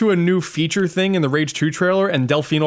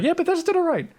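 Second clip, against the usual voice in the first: grudging approval; 14 semitones higher, faster than usual. Retold or imitated. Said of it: "I was like".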